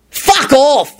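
high-pitched angry outburst; yell. A narrator's reading. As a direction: yell them away, pitch jumping up. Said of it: "Lupin yelled".

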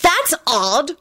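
put-on high, venomous girl's voice; venomous shout. A narrator's reading. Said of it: "Rosie shouted venomously".

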